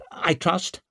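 high little questioning squeak. A narrator's reading. Bruckle checking that she will stay lawful, squeaking. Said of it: "squeaked Bruckle".

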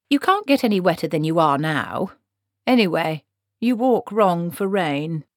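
lightly voiced no-nonsense old witch; brisk Granny figure. Granny correcting the wet wizard, lightly scolding.

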